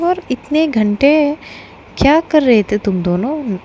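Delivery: sister-in-law loudly quizzes the newlyweds; loud teasing quiz. Acted. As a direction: grill her loudly with a knowing tease.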